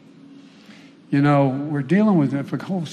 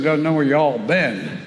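attempted Southern accent; slower than usual. Real, not acted. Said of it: "as they say in Southern".

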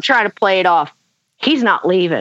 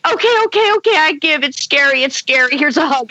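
giving in; 5 semitones higher than usual. Retold or imitated. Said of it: "and I'm like".

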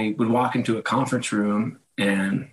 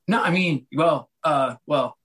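higher, halting imitation of hedging; flustered backpedalling; 4 semitones higher, slower than usual. Husband stalling when challenged by his wife, acted flustered hedging. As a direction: imitate being caught out and stalling.

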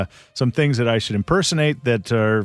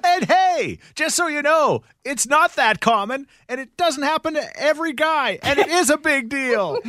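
Rachel impression. Rachel mocking Ross after the break, high falsetto. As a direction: tease him sweetly, falsetto. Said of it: "is Rachel".

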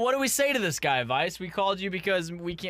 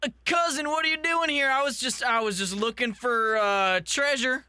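put-on teen girl voice; 4 semitones higher than usual. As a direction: play a sneaky teenage girl. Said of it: "I'm the female cousin".

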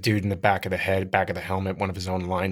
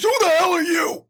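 louder rough, strained challenge; Alan Graff; 4 dB louder than usual. Acted. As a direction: demand it in a chewed-nails bellow. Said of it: "And he goes".

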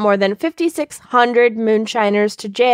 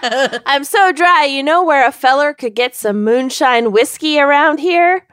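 put-on Minnesota accent. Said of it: "I'm doing Minnesota".

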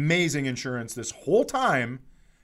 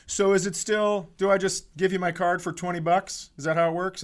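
a hint of high naive patient; 5 semitones higher than usual. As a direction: ask the clerk like a clueless customer. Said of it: "I'm like".

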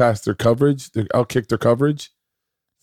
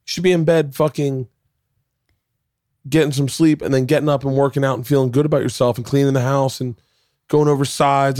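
self-scolding; 5 semitones higher than usual. Retold or imitated. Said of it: "I'm really beating myself up".

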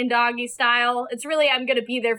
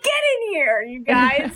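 mock invitation; 2 semitones higher than usual. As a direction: call them over in mock eagerness. Jokes she invited the intruders in.

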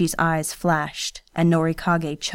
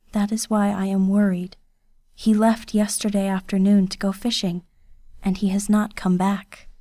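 put-on a lightly raised, shy young woman's voice; Kiyose, timid girl. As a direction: servant girl asking to enter, timidly.

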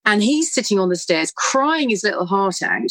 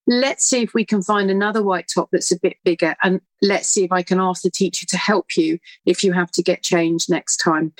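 tender reassurance. Retold or imitated. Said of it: "put my arm around and say".

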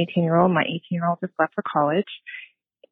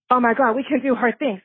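excited realization; 5 semitones higher than usual. Retold or imitated. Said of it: "I went".

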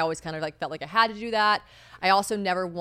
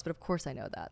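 mock condescension; 5 semitones lower, 10 dB quieter than usual. Quoting condescending older guy.

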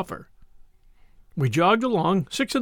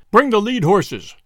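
lordly order; 2 semitones higher, 6 dB louder, slower than usual. Acted. Lord orders his servant.

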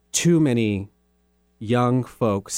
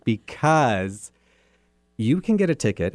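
smiling voice. Real, not acted. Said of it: "I'm smiling so big right now".

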